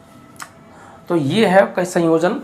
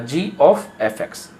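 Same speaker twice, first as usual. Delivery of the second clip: slow letter by letter; much slower than usual. Shown as a demonstration. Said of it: "इसको कैसे लिखेंगे".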